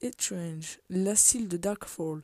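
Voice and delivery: French speaker's rough English accent on the names; clumsy English-accented place names; botched English accent. Real, not acted. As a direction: attempt English pronunciation, badly. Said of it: "Mon accent anglais éclaté".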